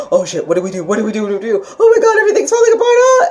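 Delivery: the emotional body losing it in a panic; mock panic. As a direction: spiral into a hammed-up freak-out ending in a yelp. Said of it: "just be like".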